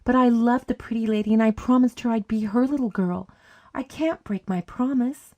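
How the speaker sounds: put-on upset little girl insisting on her promise; gasping distress. A narrator's reading. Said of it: "she gasped".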